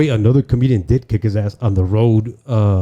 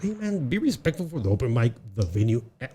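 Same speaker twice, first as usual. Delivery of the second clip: softer, reasoning retold plea; 8 dB quieter than usual. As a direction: ease off the volume, reasoning man to man. Retold appeal to disrespectful comic.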